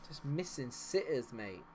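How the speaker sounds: ordinary delivery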